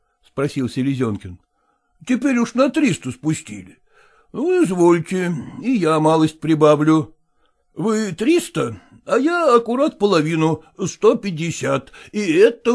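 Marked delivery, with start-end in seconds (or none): none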